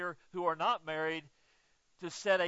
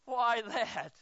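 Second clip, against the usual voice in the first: real helpless laughter; cracking up at the congregation's reaction; laughing; 4 semitones higher than usual. Real, not acted. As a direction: break up into laughing. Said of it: "No, not really".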